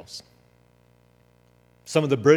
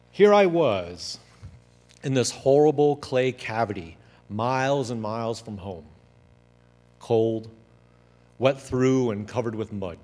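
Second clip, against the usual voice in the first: dramatic memoir reading. Acted. Reads the memoir aloud.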